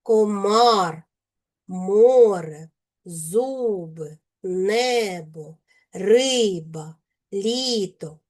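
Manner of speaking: distinct, expressive vowels in "комар, море, зуби, небо, риба, літо"; "комар, море, зуби, небо, риба, літо" with carefully articulated stressed vowels; clear stressed vowels. Shown as a demonstration. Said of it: "вимовляємо їх чітко і виразно".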